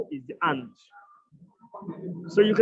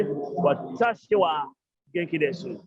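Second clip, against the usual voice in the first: slow model sentence; 3 semitones lower, slower than usual. Shown as a demonstration. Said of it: "So you can say".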